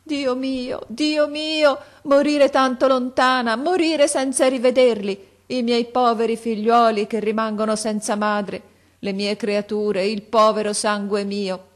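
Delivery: put-on a dying mother crying out for her children; desperate wail. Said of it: "con un atto di disperazione ... gridava". (madre morente che grida disperata, poi si spegne lenta)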